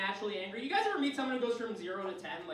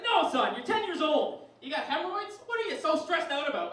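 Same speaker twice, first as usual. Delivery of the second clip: raised, higher angry scolding; fuming dad; 6 semitones higher, 4 dB louder than usual. Acted. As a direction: tear into your son. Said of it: "he was fuming".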